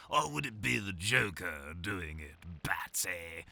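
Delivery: a light, half-hearted hint of the Joker; Joker impression. Voice actor riffs a Joker reading for his friend's game. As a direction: toss off a quick mock Joker taunt to Batsy. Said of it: "Awful Joker impression".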